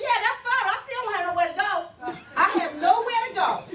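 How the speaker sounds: retold crying. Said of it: "I'm crying".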